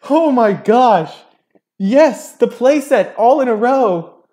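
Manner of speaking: real high, loud shouts of triumph; overjoyed, drawn-out high yells; ecstatic shouting. Real, not acted. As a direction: scream it like you just hit the jackpot. Celebrates getting four straight Charge cards.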